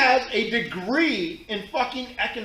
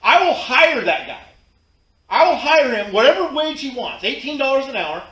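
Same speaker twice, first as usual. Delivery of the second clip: fired-up rant; 2 semitones higher, 5 dB louder than usual. Real, not acted. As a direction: hammer each point home. Ranting about hiring that guy.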